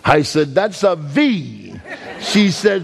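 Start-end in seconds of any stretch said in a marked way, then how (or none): 0.5-1.8 slow, amused, half-laughing; a child's proud answer told with laughter. Retold or imitated. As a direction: drawl it out through a laugh. Kid answers teacher, laughing.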